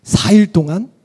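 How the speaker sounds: lightly voiced cheeky schoolboy; boy Jesus brushing off his parents, lightly voiced. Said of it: "소년 예수가".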